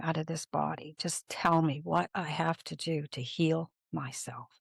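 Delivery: retold plea to God, softening toward the end; earnest prayer. Patient praying to God before surgery, earnest plea. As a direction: plead quietly with God, trailing off. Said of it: "I started praying".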